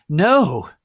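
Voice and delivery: high, loud, dramatic shriek; scream. Acted. Narrator screaming "No!" at the vision. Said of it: "I screamed, sexily".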